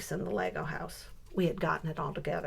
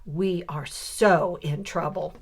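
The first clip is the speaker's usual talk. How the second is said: put-on serious child; slower than usual. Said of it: "she was so serious".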